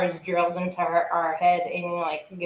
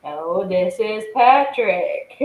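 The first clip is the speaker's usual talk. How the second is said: Patrick voice; 2 semitones higher, 5 dB louder, slower than usual. Retold or imitated. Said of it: "he's like".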